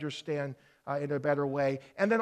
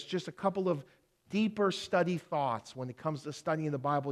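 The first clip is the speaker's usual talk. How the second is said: ordinary talk, nothing marked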